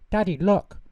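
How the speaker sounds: put-on high, loud eager shout of a little girl; excited call. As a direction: call Daddy over, thrilled to show off. Child showing her father treats.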